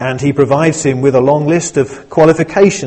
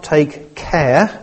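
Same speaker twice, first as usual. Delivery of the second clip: "take care" slow and pressed; stress on take care. Shown as a demonstration. Pastor quoting Timothy, weight on "take care". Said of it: "and I emphasize that word as well".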